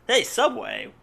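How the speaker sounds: high, loud sudden hey at the sign; startled shout at a billboard; surprised call-out. Real, not acted. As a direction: blurt it out, caught off guard. Spotting a Subway ad in game.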